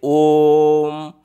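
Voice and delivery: ओम stretched long on one level tone; drawn-out vowel. Shown as a demonstration. Teacher demonstrates a pluta vowel, prolonged ओम. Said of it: "इसको थोड़ा लंबा खींचा जाता है".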